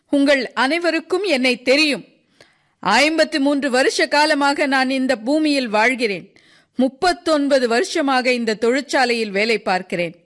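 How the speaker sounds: high-pitched, impassioned speech as Sisov; Sisov, impassioned old worker. Acted. Sisov tells the crowd about his killed son, impassioned. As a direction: declare it with rising conviction, pitched high.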